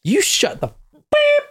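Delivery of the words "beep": shrill vocal bleep over a swear; high censor beep. Pretend.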